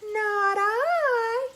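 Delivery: high, loud, whining cat voice; whiny cat. Shown as a demonstration. Storyteller shows children how a cat says it, high whine. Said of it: "very whiny".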